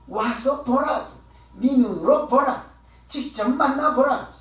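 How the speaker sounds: bold retold invitation in short separate phrases; confident, assured. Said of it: "당당한 소리요".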